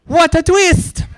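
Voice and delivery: very high, slow, laughing; delighted exclaim. Real, not acted. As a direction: laugh in gleeful surprise. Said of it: "I've got to say".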